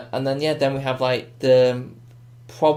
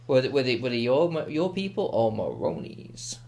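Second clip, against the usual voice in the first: Joker. Acted. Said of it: "that's my Joker impression".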